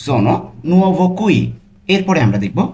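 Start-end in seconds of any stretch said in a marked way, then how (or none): 0.1-1.4 very slow, careful Italian; slow demo. Shown as a demonstration. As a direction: spell it out slowly for learners. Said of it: "এভাবে আমরা না বলে বলবো".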